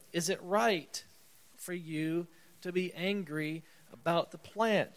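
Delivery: mild, calm asking voice; gentle questioning. Retold or imitated. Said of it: "you can hear this gentle questioning of God".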